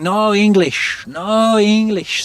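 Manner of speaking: lightly voiced lost foreigner, slow and high; mimicking a lost traveller. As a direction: drag it out like a stranded man pleading. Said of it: "And he's going".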